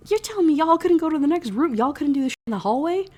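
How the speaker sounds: high, loud incredulous protest; indignant outburst. Real, not acted. Reader scolding couple married beside a body, loud indignation. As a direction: call them out, voice shooting up.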